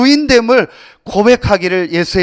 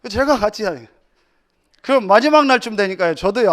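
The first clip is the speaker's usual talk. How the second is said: usual speaking voice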